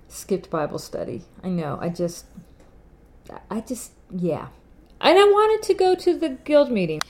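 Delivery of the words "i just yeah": whisper. Real, not acted. Unvoiced trailing confession.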